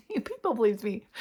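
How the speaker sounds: laughing through real tears; a choked, teary laugh while repeating the words; tearful laugh. Real, not acted. Repeating what God told her, laughing and tearful.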